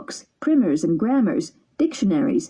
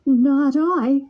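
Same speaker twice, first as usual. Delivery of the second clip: frightened stammer; 6 semitones higher, 3 dB louder than usual. Acted. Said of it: "stammered Pinocchio, frightened".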